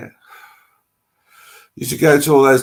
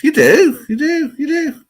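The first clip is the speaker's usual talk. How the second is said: eager reassurance; 6 dB louder than usual. Real, not acted. Reassuring viewer he exists.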